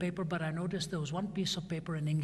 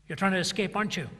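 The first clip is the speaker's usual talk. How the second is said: accusing; 3 semitones higher, 6 dB louder, faster than usual. Retold or imitated. Viet Cong accusing at the door.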